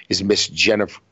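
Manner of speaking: hiccuping mid-sentence; talking through hiccups. Real, not acted. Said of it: "I have the hiccups there for a sec".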